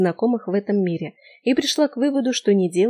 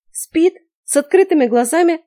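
high, loud disbelief; astonished; 9 semitones higher, 6 dB louder than usual. A narrator's reading. Heroine stunned the old woman sleeps eyes open, astonished. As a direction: gasp it out in amazement.

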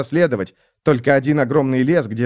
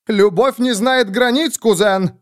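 much higher, slow mocking shout; shouted back; 11 semitones higher, 3 dB louder than usual. Miesner shouting back at his cousin, high and slow. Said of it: "крикнул в ответ Плашке Миснер".

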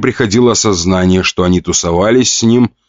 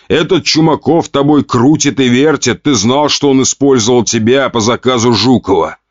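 angry growl; 5 semitones higher than usual. Acted. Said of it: "рыкнул отец".

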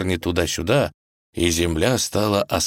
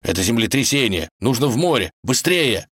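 raised, alarmed warning; urgent; 5 semitones higher than usual. Acted. Wolf warns the couple to flee the earthquake, urgent. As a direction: drive them on in short exclamations.

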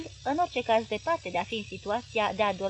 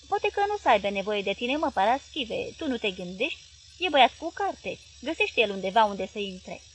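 lightly voiced pleading wife; coaxing wife; 4 dB louder than usual. Wife trying to calm her husband, lightly pleading. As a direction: nudge him, half soothing.

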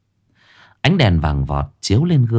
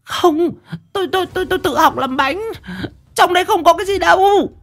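much higher, stammering plea; frightened wife begging her husband; terrified denial. A narrator's reading. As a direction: squeak out the denial in panic. Beaten wife denying in terror.

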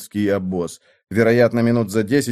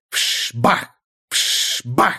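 imitated whoosh-bang. A narrator's reading. Firework bursts imitated.

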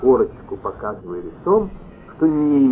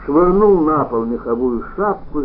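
plain reading voice

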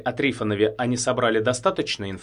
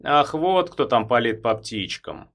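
knowing; 3 dB louder than usual. Acted. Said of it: "понимающе кивнул Трифонов".

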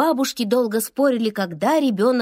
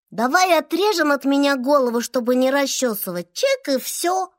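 put-on sleepy child voice; 2 semitones higher than usual. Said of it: "предложила маленькая мама".

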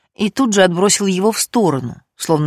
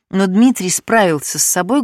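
ordinary delivery, nothing marked

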